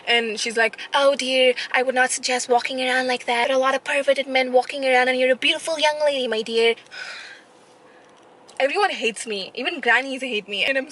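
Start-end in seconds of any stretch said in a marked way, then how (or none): 0.9-6.7 lightly voiced caring granny; a hint of a fussing old lady; mild mock granny warning. Old lady gives advice.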